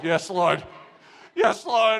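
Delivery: grudging, joyless yes; dour, miserable. Retold or imitated. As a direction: say it like a chore you resent. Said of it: "it's miserable".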